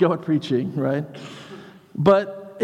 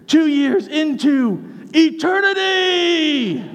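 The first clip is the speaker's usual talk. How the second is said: Billy Graham style preaching. Retold or imitated. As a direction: build steadily like a revival preacher to the final word. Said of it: "doing a Billy Graham thing".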